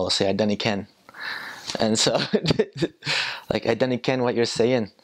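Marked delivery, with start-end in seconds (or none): 0.3-0.9 mock Scottish accent. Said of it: "my accent's not very good, but I like to pretend". 3.7-4.9 mock Scottish accent. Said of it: "my accent's not very good, but I like to pretend".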